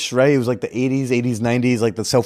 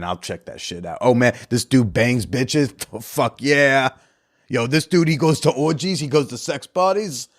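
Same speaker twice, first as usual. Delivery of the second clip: put-on dude-bro accent. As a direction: play a clueless gym bro talking himself into it. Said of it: "he'll just stop speaking in that accent".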